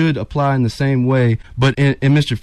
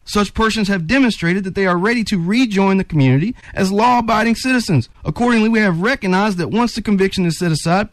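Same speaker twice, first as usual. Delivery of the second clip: higher-pitched, fervent reading aloud; passionate reading; 6 semitones higher than usual. Real, not acted. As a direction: read it like a ruling you truly believe in. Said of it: "You hear that passion in his voice".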